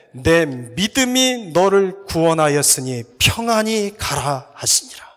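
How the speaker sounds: slow, loud, declaiming the verse; solemn scripture reading. Acted. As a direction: proclaim the verse slowly from the pulpit. Preacher reads scripture aloud.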